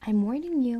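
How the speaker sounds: put-on dummy bellowing at the girls. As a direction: bellow the warning. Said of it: "he bellowed".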